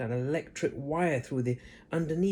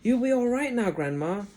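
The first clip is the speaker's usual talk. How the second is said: George; 9 semitones higher, 6 dB louder than usual. A narrator's reading. George reassuring.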